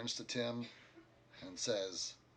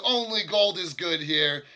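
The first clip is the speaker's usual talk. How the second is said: louder, gruff barkeep telling them off; innkeeper voice; 7 semitones higher, 11 dB louder than usual. Acted. Innkeeper refusing the party's silver, loud and gruff. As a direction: lay down the house rule. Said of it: "He said".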